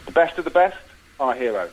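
measured trailer-style storytelling; film pitch narration. Acted. Pitching a cop film to the hosts, dramatic narration. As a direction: set the scene in dramatic phrases.

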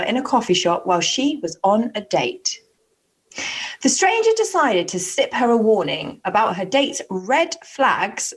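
deliberate, lilting read-aloud; news-story reading. A narrator's reading. Host reads dating news to a co-host, storyteller delivery.

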